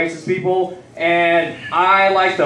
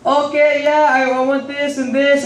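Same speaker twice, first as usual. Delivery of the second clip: higher-pitched mock Indian accent; 6 semitones higher than usual. White friend ordering at Walmart, in an Indian accent. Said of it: "he uses his Indian accent".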